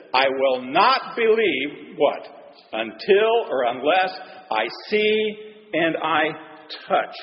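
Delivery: slow, deliberate refusal; lightly voiced doubter digging in his heels; stubborn Thomas. Thomas tells the disciples he won't believe, slowly.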